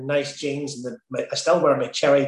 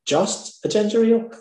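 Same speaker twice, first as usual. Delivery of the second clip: higher, questioning echo of the order; incredulous waitress; 7 semitones higher than usual. Retold or imitated. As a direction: imitate a waitress querying the order in disbelief. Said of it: "And that's what she said".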